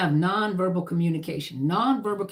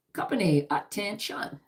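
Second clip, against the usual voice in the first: a lightly voiced formation command, "attention" pitched higher; drill command; 3 semitones higher, 3 dB quieter than usual. Shown as a demonstration. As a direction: give the order to come to attention. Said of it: "Right. You see?".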